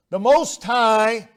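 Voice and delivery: Most High said slowly, leaning on Most; savoured emphasis. Shown as a demonstration. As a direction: linger on each word of The Most High. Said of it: "what two wonderful words".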